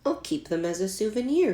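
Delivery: a bright, high thank you; delighted, grateful; girl thanking a boy for the names; happy thanks. A narrator's reading. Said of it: "Yoon-hai said happily".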